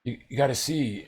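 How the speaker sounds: a hint of a brother calling from upstairs. Brother calls Jerry up to see the news, lightly acted urgent call.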